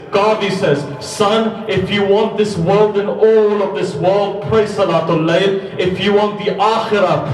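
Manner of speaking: high, loud, slowed preacher voice; preacher at full force recounting Qadi's advice; impassioned preaching. Acted. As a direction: preach it with fervour, pressing each line.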